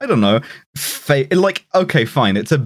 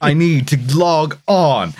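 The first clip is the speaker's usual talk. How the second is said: mock scream; 2 semitones higher, slower than usual.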